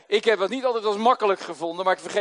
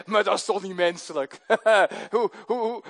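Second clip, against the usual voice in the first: laughing through the words; laughing, protesting to God. Real, not acted. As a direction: laugh at the absurdity. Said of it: "En dan zeg ik, Heer".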